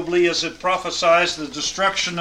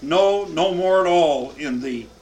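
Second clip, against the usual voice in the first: "No, no" louder and slow, each "no" stressed; emphatic double no; 4 dB louder, slower than usual. Shown as a demonstration. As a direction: lean on both "no"s slowly. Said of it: "This is a double negative".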